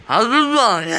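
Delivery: giggling through stuffed cheeks; laughing with mouth full. Real, not acted.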